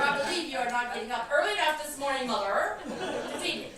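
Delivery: fast, laughing cat complaint; a lightly voiced cat demanding breakfast; cat Gabriel. A hint of her cat Gabriel scolding her for sleeping late, laughing. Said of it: "Gabriel would say that".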